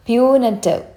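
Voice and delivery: "Punitive" said carefully, falling at the end; deliberate teaching take of "Punitive"; pronunciation demo. Shown as a demonstration. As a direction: model "Punitive" clearly for learners. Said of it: "ഈ വേർഡിൻ്റെ pronunciation".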